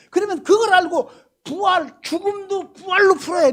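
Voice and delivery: loud, high, driving sermon delivery; preaching at full force. Acted. Pastor urging the congregation to follow the resurrection, preaching at full force. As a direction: press the point hard to the congregation.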